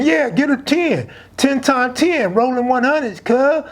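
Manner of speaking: hyped friend. Retold or imitated. Pup hyping the bet.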